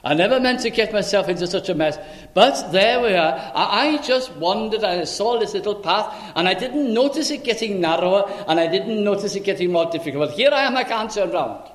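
the stranded sheep explaining itself, only a hint of a character voice; talking sheep. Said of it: "if the sheep could talk, he said".

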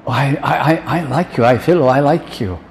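acted hesitant, cornered answer; flustered reply. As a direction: falter over the first word, then insist. Acts Peter faltering when asked again.

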